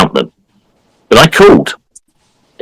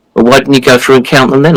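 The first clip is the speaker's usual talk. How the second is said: imitating the hectoring guy; 6 semitones higher, faster than usual. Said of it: "started giving me all sorts of hell".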